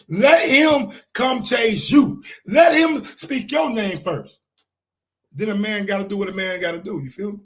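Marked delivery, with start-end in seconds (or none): 0.1-4.4 emphatic shout. Real, not acted. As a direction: stretch it out and lean on "Let". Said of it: "repeats it louder".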